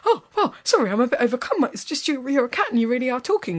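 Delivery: flustered, breathless awe; overwhelmed. Acted. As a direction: gush in disbelief. Businessman overwhelmed by talking cat.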